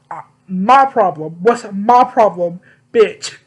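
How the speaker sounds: angry comeback. Retold or imitated. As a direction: throw the question back in his face.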